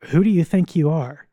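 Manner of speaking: imitating God putting Job in his place; God rebuking Job. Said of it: "what God is saying to Job".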